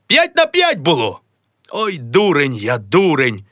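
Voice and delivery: high, sneering mock lament; a high, jeering old uncle. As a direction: savour each name to taunt him. Uncle Taras mocks the name.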